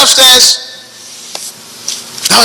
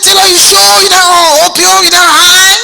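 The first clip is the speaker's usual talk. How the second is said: teasing question; 7 semitones higher than usual. Retold or imitated. Teasing Taylor about opium.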